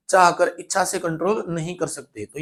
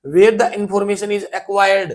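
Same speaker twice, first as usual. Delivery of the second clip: very slow, word by word; slow question reading; 3 dB louder, much slower than usual. Shown as a demonstration. Teacher to class, rereading the question slowly.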